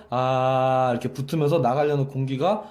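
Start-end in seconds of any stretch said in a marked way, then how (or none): 0.1-0.9 short held "ah" on a level note; brief, even demonstration vowel; sustained "ah" demo. Shown as a demonstration. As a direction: voice a steady "ah" to show the vocal cords closing. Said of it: "성대가 붙으면서".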